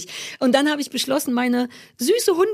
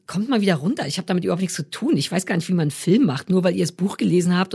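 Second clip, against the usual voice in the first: low voice of self-reproof; inner killjoy policeman; 4 semitones lower than usual. Acted. Inner policeman cutting the proud author down to size, low reproving voice. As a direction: lower your pitch and rein yourself in. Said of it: "dem kleinen Arschlochpolizisten im Kopf, der sagt".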